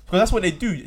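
laughing loud complaint; laughing rant. Real, not acted. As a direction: rant while cracking up. Laughing rant about being claimed.

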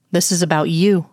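grunted through gritted teeth. Acted. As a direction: force it out through clenched teeth. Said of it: "He grunts the words through gritted teeth".

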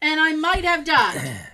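slow, loud, hammed-up declaration; milk the near-death claim; dramatic emphasis. Telling the maintenance guy about nearly dying, dramatic.

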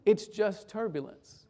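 slow, soft and even; calm reassurance. Retold or imitated. Pastor soothing the frightened boy beside him, calm and slow. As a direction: settle him down gently.

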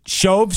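"Shove" with a long o, rhyming with stove; long-o pronunciation. Real, not acted. Host asking how the street is named, "Shove" with a long o. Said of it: "I think it's pronounced Shove".

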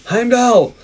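high, drawn-out call; mock summoning call. Host joking about being beamed up, mock summoning call. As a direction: call the name out to the heavens. Calls out like film character.

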